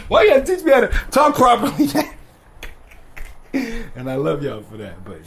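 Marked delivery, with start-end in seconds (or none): 0.1-2.1 loud, high-pitched mock complaint; hammed-up whiny rant, pitched way up; mock outrage. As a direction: yell at your parents in playful protest. Mock rant at his parents.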